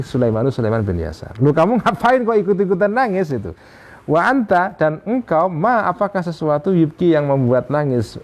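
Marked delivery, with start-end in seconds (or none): 1.4-8.2 high, pleading, puzzled; a friend asking why you cry too; high-pitched incredulous complaint; exasperated protest. Acted. Sulaiman scolds weeping friend.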